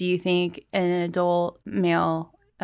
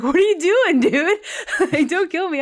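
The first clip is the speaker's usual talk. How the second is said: high, loud, laughing panic; mock panicked pleading; 10 semitones higher, 5 dB louder than usual. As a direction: squeal it out like a scared turkey. Turkey begs not to be killed.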